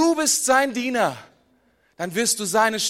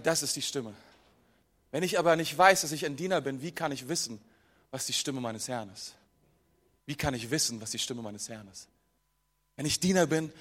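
viel leiser und tiefer, fast innig; leise eindringlich; 10 semitones lower, 7 dB quieter than usual. Real, not acted. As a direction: ganz leise, ernst zur Gemeinde sprechen. Predigt wird leise und eindringlich. (leise, tiefe, innige Predigtstimme)

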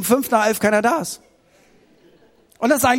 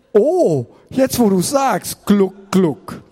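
slow, drawn-out dawning realisation; comic gulp as you go under; sinking realisation; slower than usual. Acted. Peter hears his brain and starts sinking, slow comic realisation.

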